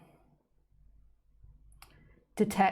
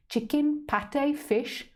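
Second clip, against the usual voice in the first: 1 eager guessing; 8 semitones higher, much slower than usual. Acted. Cat imagining food eagerly.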